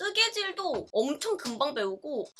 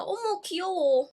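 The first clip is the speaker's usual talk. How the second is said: cute squeal; 7 semitones higher, 4 dB louder, slower than usual. Real, not acted. Cooing over childhood puppy.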